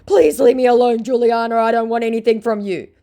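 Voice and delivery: high, loud mock plea; hammed-up high pleading; mock scammer plea. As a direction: beg as the scammer. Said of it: "he goes".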